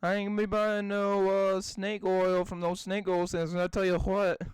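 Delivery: put-on southern folksy talk; southern accent. Joking about snake oil salesmen, southern accent. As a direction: play a southerner refusing a sale. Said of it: "I just went southern".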